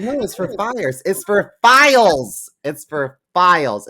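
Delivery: high, loud mocking husband voice. Wife mocking husband's insistence on the cabinet, high whiny voice.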